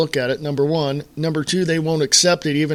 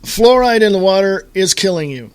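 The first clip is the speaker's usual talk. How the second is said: emphatic warning; 3 semitones higher, 6 dB louder than usual. Shown as a demonstration. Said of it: "any more poignant or direct".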